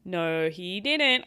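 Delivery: slow, heavy, annoyed no; slow angry denial. Real, not acted. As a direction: drag out each word in disbelief. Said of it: "I'm getting angry".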